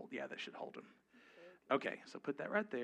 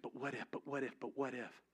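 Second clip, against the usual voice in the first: soft, nagging echo of the anxious mind; nagging inner voice; 5 dB quieter than usual. Retold or imitated. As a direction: let the doubt repeat quietly. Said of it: "your mind".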